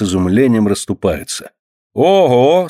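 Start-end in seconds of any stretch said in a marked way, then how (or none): 1.9-2.7 surprised exclamation. A narrator's reading. Crowd gasps.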